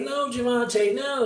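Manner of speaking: high-pitched pleading, begging woman's voice. Describing a video of a woman being pushed: imitating a woman pleading. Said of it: "She was pleading with him".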